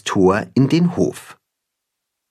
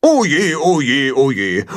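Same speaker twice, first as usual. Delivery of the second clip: lightly voiced lamenting goose; Gram, dismayed goose; 3 semitones higher than usual. A narrator's reading. Goose Gram moans about the board, dismayed. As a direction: wail "oh dear" in a falling run. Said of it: "Gram schlägt die Flügel vors Gesicht".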